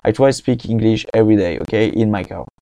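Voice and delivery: halting English with a strong French accent. Real, not acted. Practising English in the car, French accent. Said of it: "Et mon accent, vous me pardonnerez, il est vraiment pas bon".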